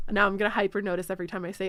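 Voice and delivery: fast, laughing through the words. Real, not acted. Catching herself in the habit, laughing fast. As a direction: rush it out while still laughing.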